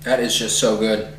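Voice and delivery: talking with a mouthful; words round a big bite; scarfing food down. Real, not acted. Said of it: "I am scarfing this down".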